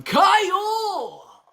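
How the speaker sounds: loud, high laughing call of the name; real joyful shout with a laugh; excited shout. Real, not acted. Greeting a viewer who returned.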